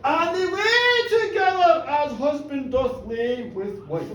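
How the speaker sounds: slow, laughing over mock-biblical words; laughing mock solemn. Real, not acted. Storyteller hinting at the couple's night, slow and laughing. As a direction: giggle through the solemn phrasing.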